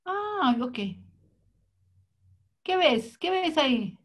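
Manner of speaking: quizzing a patient; lightly voiced psychologist.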